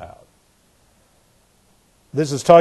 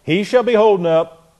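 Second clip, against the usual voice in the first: voicing the father; 5 semitones higher than usual. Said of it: "the father would say".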